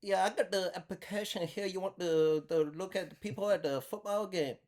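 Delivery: put-on high-pitched prank-call Asian accent; hammed-up Asian caller voice. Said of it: "she heard me do the accent".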